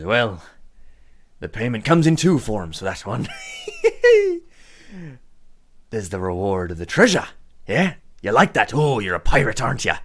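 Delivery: lightly voiced grinning villain with a giggle; teasing gang boss. Boss offers treasure to a pirate, gleefully teasing. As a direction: dangle the reward playfully.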